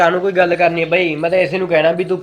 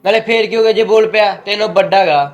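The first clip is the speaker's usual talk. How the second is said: scolding; 3 semitones higher, 4 dB louder than usual. Acted. Brother scolds his sister.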